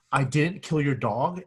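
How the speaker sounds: "kill" leaned on, slow and deliberate; stress on kill. Shown as a demonstration. Teacher demonstrating emphasis to the class, stress on "kill". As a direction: put the weight on "kill", rising. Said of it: "the meaning of the sentence changes depending on what word you emphasize".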